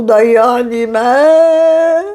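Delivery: slow, heavy words of loss; slow grieving. Acted. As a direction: let each word sink in sorrow. Mother mourns son's betrayal.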